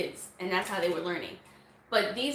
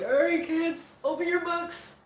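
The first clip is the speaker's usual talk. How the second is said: high-pitched mock classroom call; put-on cheery teacher voice; teacher greeting kids; 6 semitones higher, 3 dB louder than usual. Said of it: "you're waking up like".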